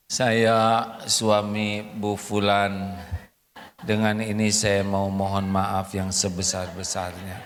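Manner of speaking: lightly voiced stiff recorded confession; husband's video apology. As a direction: recite it like a contrite husband on camera. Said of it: "bikin video rekaman".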